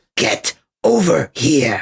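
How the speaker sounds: weak, lame little half-whisper, very close. Mocking how Scorpion delivers his line: half-whispered Scorpion impression. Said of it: "he kind of whispers".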